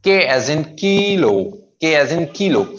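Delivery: "kilo" with a long first vowel, unbroken; one unbroken piece. Shown as a demonstration. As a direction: model "kilo" carefully as one unit. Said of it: "Single syllable". ("kilo" बिना तोड़े, एक साथ)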